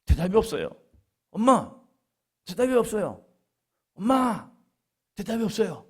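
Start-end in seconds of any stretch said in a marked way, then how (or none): 1.3-1.7 calling mom. Retold or imitated. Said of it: "그래서 엄마를 부릅니다". 3.9-4.5 calling mom. Retold or imitated. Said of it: "그래서 엄마를 부릅니다".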